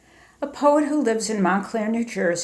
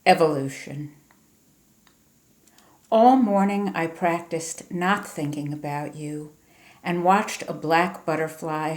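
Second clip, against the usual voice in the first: poetry reading; 2 semitones lower than usual. Acted. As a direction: let each image settle before the next line. Reads second poem aloud.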